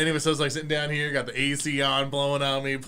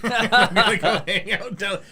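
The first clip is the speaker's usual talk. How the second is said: laughing through the words, slow; 7 semitones higher, 4 dB louder, slower than usual. Real, not acted. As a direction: laugh while you say it. Laughing while retelling.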